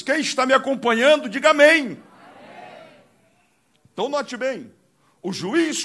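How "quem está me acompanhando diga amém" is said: chamado alto à igreja; peça o amém bem alto; apelo à congregação. Real, not acted. (chamando a igreja em voz alta)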